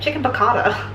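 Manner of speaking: light mock American accent on Chicken piccata. Joking about how the dish sounds, mock American accent. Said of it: "like an American person being like".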